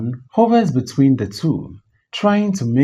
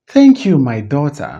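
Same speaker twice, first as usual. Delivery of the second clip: mock gratitude; acted stung thanks; bitter sarcasm; 4 dB louder than usual. Insulted mother answers in quarrel.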